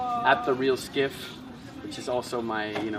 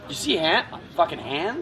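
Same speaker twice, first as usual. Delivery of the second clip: raised-pitch mock Canadian accent; Canadian bandit; 4 semitones higher than usual. Improvising Canadian bandits looking for someone, high mock Canadian accent. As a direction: play a hammed-up Canadian thug. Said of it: "imagine Canadian bandits".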